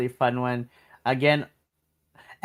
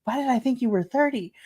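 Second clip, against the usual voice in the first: surprised; 8 semitones higher than usual. Retold or imitated. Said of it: "I was just like".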